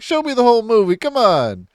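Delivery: hammed-up moviegoers begging for the kiss; crowd complaining. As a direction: groan it up high like a fed-up crowd. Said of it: "It's like".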